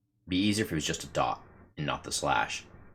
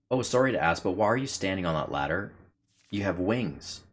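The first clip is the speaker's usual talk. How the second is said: character voice; 4 semitones higher than usual. Acted. Voicing the heroine's question.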